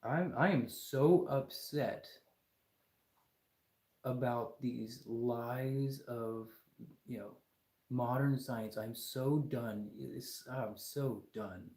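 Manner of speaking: slow, drawn-out lament; mock despair. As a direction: sigh it out, slow and fading. Lamenting lies of modern science.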